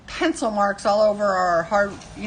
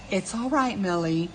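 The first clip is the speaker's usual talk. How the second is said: mock condescending. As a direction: pretend to soothe, playfully patronizing. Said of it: "in a total condescending voice".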